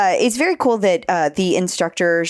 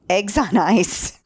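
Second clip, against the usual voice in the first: trying not to laugh; 3 semitones higher, slower than usual. Real, not acted. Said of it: "I can't say it without laughing".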